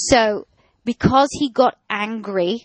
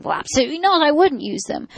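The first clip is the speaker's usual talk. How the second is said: high, shocked "absolutely not"; indignant dog owner; 7 semitones higher, faster than usual. Acted. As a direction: play the offended owner. Acted owner answering, indignant.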